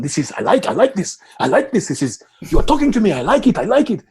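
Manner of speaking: put-on light French-accented excited stranger; a hint of a French accent, loud and thrilled; French guy. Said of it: "a French guy going".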